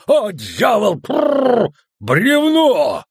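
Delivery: very high, loud startled yell; alarmed shout. A narrator's reading. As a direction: yell in alarm while halting the horses. Dwarf sees log, halts horses. (испуганно орёт, останавливая лошадей)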